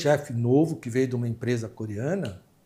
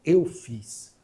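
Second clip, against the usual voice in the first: começa contida e sobe até gritar; desabafo indignado; 8 dB louder than usual. Retold or imitated. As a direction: cresce até o grito no final. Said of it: "ela virou pra ele assim". (funcionária confronta o novo diretor, subindo até gritar)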